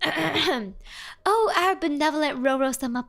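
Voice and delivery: lightly reverent, grand reading; nice voice. Acted. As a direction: read it like a humble plea to a deity. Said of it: "I have to read this in the nice voice".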